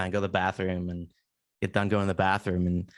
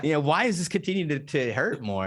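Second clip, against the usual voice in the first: puzzled; 3 semitones higher than usual. Retold or imitated. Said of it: "said it out loud to myself".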